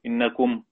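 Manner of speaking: إنكم ending on a silent m, no vowel; stop with sukun. Shown as a demonstration. Teacher showing the pause on إنكم with sukun. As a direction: close إنكم on a plain silent m. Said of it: "لما نقف نقول".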